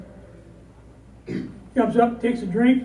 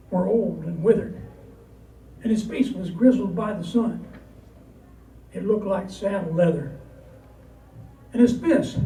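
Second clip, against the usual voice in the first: sad poem recital. Acted.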